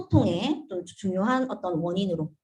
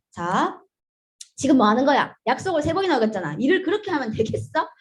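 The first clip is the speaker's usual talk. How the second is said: pushy boss scolding; 3 semitones higher, 3 dB louder than usual. Shown as a demonstration. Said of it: "이렇게 얘기하면은".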